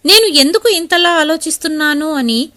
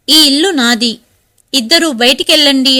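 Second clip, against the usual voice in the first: a touch louder, ordering them out; shouting; 4 dB louder than usual. Acted. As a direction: read as a mother's understated shout. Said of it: "గట్టిగా అరిచింది మీనాక్షి". (కాస్త గట్టిగా అరుస్తూ)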